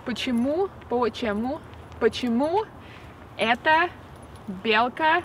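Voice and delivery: "Почему" repeated slowly, each one rising; slow repetition. Shown as a demonstration. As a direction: drill "Почему эта белка" word by word. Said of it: "one more time".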